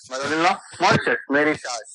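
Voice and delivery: loud, emphatic मॉरिशस, मेरी सास. Shown as a demonstration. Teacher hammers home the memory trick. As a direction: punch out मेरी सास loudly.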